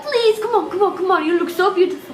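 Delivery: pleading stallholder. Retold or imitated. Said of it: "they kept coming up to me and".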